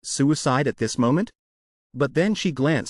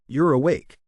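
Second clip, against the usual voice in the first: shout. A narrator's reading.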